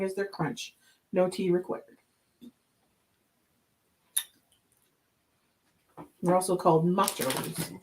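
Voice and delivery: upbeat voiceover narration; voiceover read. A narrator's reading. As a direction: read it like a snack ad. Voiceover product description.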